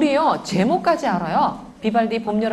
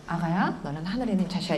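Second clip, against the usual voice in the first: put-on softer, hushed blessing to a baby; tender blessing; 5 dB quieter than usual. Shown as a demonstration. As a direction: murmur it lovingly to the child. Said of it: "이거 하루에 열 번씩 하는 거예요".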